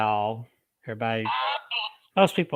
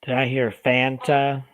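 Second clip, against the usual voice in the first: calling to spirit. Acted. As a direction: ask each question clearly for the recorder. Questions spirit on recorder.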